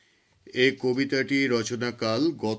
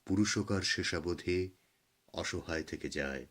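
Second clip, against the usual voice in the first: measured, declaimed Bengali poem with dramatic pauses; poem recitation. Acted. Poet reading their own Krishna poem to listeners, solemn recitation.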